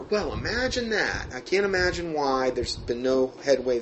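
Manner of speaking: sarcastic. Real, not acted. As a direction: say it with heavy irony. Sarcastic aside on failed investigations.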